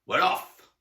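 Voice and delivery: loud, eager cry; excited shout. A narrator's reading. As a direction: shout it with glee. Setting off cry.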